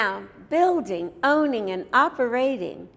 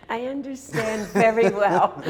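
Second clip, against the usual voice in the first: warm chuckle through the words; kind gentle laugh. Real, not acted. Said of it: "I'm not laughing at you".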